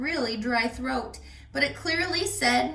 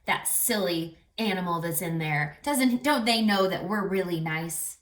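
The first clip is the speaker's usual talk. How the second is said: annoyed; 4 semitones lower than usual. Retold or imitated. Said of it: "they're not saying".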